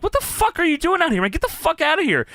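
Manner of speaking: high, scolding ref yelling; imitating a referee telling him off; mock angry referee. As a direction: shoo him away like a fed-up ref. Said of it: "Brian Hebner's like".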